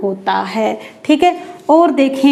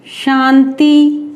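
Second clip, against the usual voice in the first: slow example; much slower than usual. Shown as a demonstration. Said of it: "जैसे रीति".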